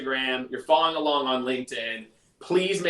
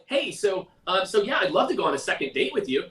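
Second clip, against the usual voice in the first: high-pitched voice; 6 semitones higher than usual. Retold or imitated. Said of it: "get that high-pitched voice and they're like".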